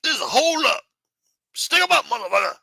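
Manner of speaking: put-on high, loud 1960s African-American accent. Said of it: "nineteen sixties African-American accent".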